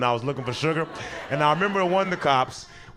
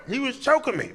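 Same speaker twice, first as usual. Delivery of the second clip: put-on indignant drunk roommate; 9 semitones higher than usual. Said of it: "my roommate was like".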